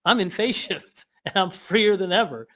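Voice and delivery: high, bright mock thank you; cheery mock reply. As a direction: brush off the insult cheerfully.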